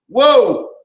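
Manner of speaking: loud high whoa; whooping whoa at the corral; cowboy whoa. Acted. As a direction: holler it like a rodeo hand. Rodeo bit, calling out.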